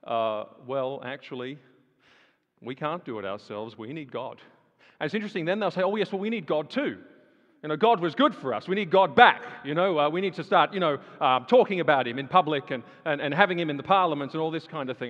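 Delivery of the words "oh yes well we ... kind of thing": mock breezy politicians. Mocks the politicians' voice.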